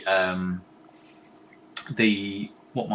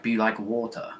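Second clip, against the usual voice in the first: Bruce Lee quote; 4 dB quieter than usual. Retold or imitated. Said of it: "Is how he says it".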